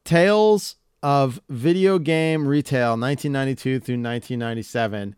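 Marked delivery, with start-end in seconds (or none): 0.0-3.0 slow, drawn-out title reading; grand title announcement. Real, not acted. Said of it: "I found the book".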